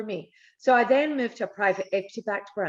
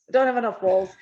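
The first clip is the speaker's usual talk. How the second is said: louder, punchy restatement of the joke; louder emphatic repeat; 5 dB louder, faster than usual. Real, not acted. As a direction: say it again with more push and volume.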